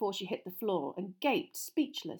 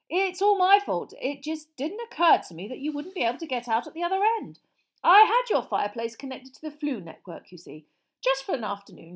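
higher, loud, chatty explanation; affable apologetic father; 4 semitones higher, 6 dB louder than usual. Acted. Mister Weasley explaining damage to relatives, flustered affability. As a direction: babble on apologetically and reassuringly.

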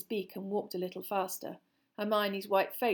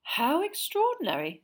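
amused; 8 semitones higher, 5 dB louder than usual. A narrator's reading. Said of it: "a note of amusement in his voice".

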